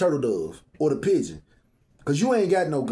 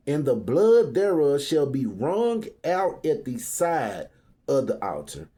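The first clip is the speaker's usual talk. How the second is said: scripture reading; 3 semitones lower than usual. Acted. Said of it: "I'm gonna go back to fourteen".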